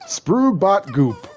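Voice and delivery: slow, laughing Sims babble; Simlish gibberish. Retold or imitated. Imitating Sims characters, slow laughing gibberish. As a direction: babble it like a Sim, slowly. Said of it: "it's the fucking Sims".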